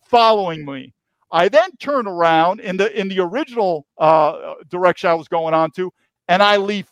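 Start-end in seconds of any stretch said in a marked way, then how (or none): 0.0-0.9 slow, firm command in a retold drill-sergeant tone; military command voice. Retelling how he ordered the agent off, slow military command. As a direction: lay down the order like an officer. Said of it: "as much military command voice as I can".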